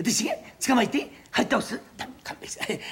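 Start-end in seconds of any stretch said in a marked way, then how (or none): 2.0-2.8 breathy plea for mercy, almost voiceless; hushed plea to be let off; begging whisper. Acted. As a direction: whisper it like a cornered animal begging. Cat pleading for mercy.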